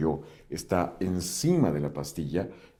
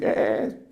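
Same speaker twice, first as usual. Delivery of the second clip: breathless unvoiced "eh, eh, eh"; whispered mock protest; mock alarmed ear; 4 semitones higher, 4 dB louder than usual. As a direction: act out your ear warning you. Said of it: "tu mismo oído va a decir".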